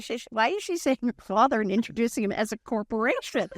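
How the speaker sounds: ordinary delivery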